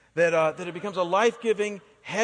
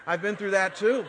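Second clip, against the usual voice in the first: laughing admission; 4 dB louder than usual. Real, not acted.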